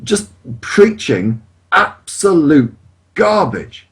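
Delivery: indignant, emphatic rant; worked up and incensed; real anger. Real, not acted. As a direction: press the point with real indignation. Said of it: "Does that make me angry?".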